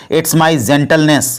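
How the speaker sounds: very slow, every word laid out for learners; slow, careful model sentence; slow teaching demo. Shown as a demonstration. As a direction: spell it out slowly for the class. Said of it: "इसको English में बोलना होगा तो क्या बोलेंगे?".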